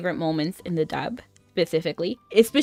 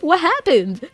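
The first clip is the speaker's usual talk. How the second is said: baffled amusement; 8 semitones higher, slower than usual. Real, not acted. Baffled reaction to the line.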